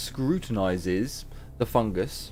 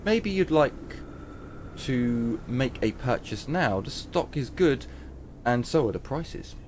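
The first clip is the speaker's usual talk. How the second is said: shopkeeper voice. Acted. Trader pitches wares.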